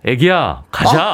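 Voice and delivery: lightly voiced drama lead; drama hero line. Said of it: "자, 한번 불러보세요". (드라마 주인공 말투)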